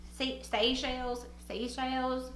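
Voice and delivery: "Seychelles" as say-shayls, country accent. Real, not acted. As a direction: test "Seychelles" softly as say-shayls with a country twang. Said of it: "my country accent is really coming out".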